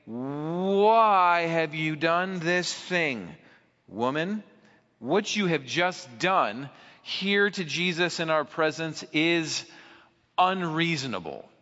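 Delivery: mock-angry disciples scolding the woman. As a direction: demand it slowly, half-angry. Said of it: "In their anger".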